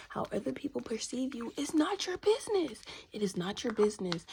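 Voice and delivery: loud, insistent repetition; insistent declaration. Real, not acted. Telling viewers others' opinions are not theirs, insistent.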